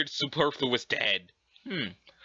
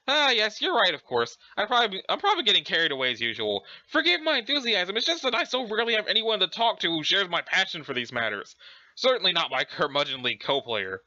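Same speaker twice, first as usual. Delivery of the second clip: apologetic, prim British character; Urania Umbra. Acted. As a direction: gush politely in a mock-British lilt. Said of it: "pretending to be British".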